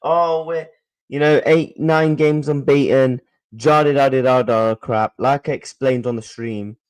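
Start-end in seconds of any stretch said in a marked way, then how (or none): 0.0-4.7 a touch of a mocking, dismissive parroting of "Oh, we're, you know, eight, nine games unbeaten"; mock excuse. Streamer mocking fans who defend the manager, mildly sneering. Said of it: "None of this".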